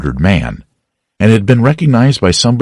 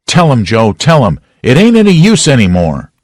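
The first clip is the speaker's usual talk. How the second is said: hopeless plea; 5 semitones higher, 4 dB louder than usual. A narrator's reading. Potter giving up.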